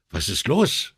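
tense, strained, held-back question; pressed voice. Acted. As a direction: squeeze the question out tightly. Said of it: "wiederholte Brunetti mit gepresster Stimme".

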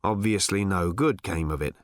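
low, deflated remark; disappointed. A narrator's reading. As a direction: say it let down, pitch sunk.

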